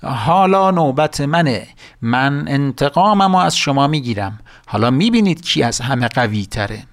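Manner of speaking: witch glaring down at the village, vowing revenge; angry witch. Acted. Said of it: "با عصبانیت گفت".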